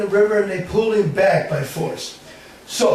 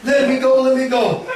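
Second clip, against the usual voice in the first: pleading; 7 semitones higher, 6 dB louder than usual. Acted. Tied-up boy pleading.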